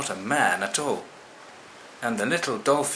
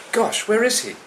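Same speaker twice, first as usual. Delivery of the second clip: much higher worried cry; alarmed gosh; 12 semitones higher, 4 dB louder than usual. Acted. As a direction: call out, suddenly worried. Dolphin searching for monkey.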